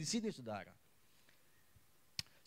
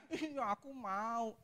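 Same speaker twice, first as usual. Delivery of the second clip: put-on sulky child; 6 semitones higher, 6 dB quieter, much slower than usual. Child answers father, sulky.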